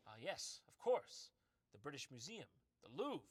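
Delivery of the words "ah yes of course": sarcastic. Real, not acted. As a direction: snap it out with mock certainty. Mock agreement, sarcastic.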